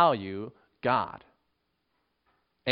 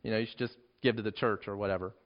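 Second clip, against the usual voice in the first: quick, offhand mock dismissal; dismissive paraphrase; 4 semitones lower, faster than usual. Preacher voicing a mistaken reading of Jesus, dismissive. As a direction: rattle it off as if unimportant. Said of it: "that idea that he's saying".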